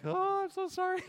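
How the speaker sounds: very high, loud mock wail; imitated crying apology. Crying children apologizing to grandfather, mock wailing. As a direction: wail it in a hammed-up child's cry. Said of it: "they were, like, crying".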